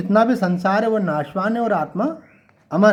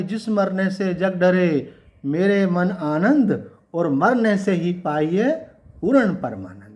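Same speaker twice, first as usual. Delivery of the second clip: slow, measured verse recitation; recited couplet; slower than usual. Acted. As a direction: draw out each word of the doha slowly. (धीमे-धीमे दोहा पाठ)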